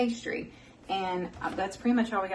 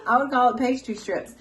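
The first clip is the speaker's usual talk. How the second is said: laughing through the words; 5 semitones higher, 7 dB louder than usual. Real, not acted. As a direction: giggle while correcting the name.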